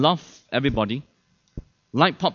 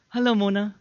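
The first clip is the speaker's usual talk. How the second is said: higher, tender spousal greeting; loving manner; 5 semitones higher than usual. Shown as a demonstration. Husband greeting his wife as told to, lovingly. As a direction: greet them sweetly, lovingly. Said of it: "speak to your ... in a loving manner".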